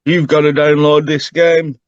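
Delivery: lightly voiced excitable little dragon; eager little dragon. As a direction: pester him like an excited child. Dragon character pitching game.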